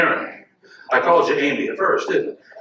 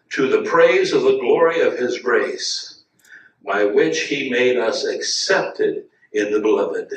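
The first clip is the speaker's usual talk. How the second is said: slow verse reading; slower than usual. Acted. Preacher reads key verse slowly.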